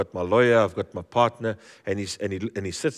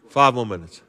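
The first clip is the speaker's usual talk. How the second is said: laughing; 6 dB louder than usual. Real, not acted. Bargaining joke, laughing.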